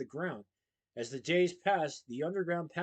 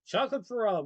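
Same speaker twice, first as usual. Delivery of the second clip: loud, higher excited cheer; 6 semitones higher, 5 dB louder than usual. Acted. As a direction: call it out to the crowd. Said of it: "Willie cheered".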